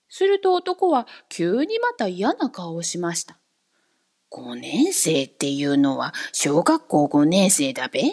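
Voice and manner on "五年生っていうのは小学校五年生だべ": much lower breathy whisper; dejected odd man asking in a pitiful voice; feeble, pitiful. A narrator's reading. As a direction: let the voice sink, weak and sorry. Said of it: "その声があんまり力なく哀れに聞こえ".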